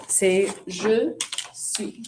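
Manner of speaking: je suis drawn out slowly for the class; slow model answer. Shown as a demonstration. Teacher modelling the answer for students, slowly. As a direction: stretch "je suis" so students catch it. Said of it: "de être qui va avec je?".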